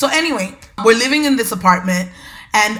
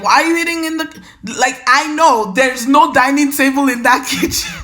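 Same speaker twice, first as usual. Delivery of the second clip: incredulous; 5 semitones higher, 3 dB louder than usual. Retold or imitated. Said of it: "I'm like".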